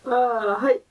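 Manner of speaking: tearful, high, laughing through tears; after laughing hard. Real, not acted. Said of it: "また泣いてますよね".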